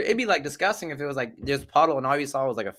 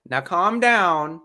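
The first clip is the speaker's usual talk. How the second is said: mock reassurance; 5 semitones higher, 4 dB louder than usual. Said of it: "He's like".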